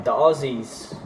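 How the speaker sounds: slow, tentative stab at Australian accent; half-hearted Australian accent; attempted Australian accent. Shown as a demonstration. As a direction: try a light Aussie accent. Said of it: "I just tried to do something".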